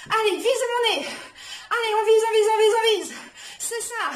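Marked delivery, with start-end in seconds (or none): 0.1-1.1 loud, pushing the class on; loud coaching shout. Real, not acted. Coach pumping up boxing set. 1.7-3.1 loud rhythmic coaching chant; counting workout reps. Real, not acted. Repeated boxing cue.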